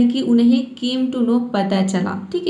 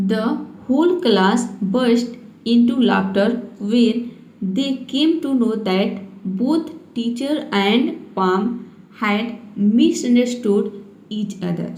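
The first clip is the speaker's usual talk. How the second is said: slow, word-by-word English reading; slow reading aloud; much slower than usual. Shown as a demonstration. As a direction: read each word out slowly for beginners. Reads English story sentence slowly. (धीरे-धीरे शब्द-दर-शब्द पढ़ना)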